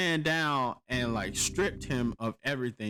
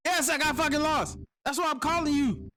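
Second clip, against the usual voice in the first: high, sarcastic "yes, I got fucking lost"; exasperated; 14 semitones higher than usual. Retold or imitated. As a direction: shoot back in raised exasperation. Exasperated retort.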